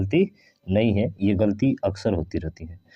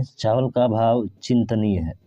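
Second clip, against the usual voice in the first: slow reading. Shown as a demonstration. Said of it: "चिंतनीय नहीं है भाई साहब".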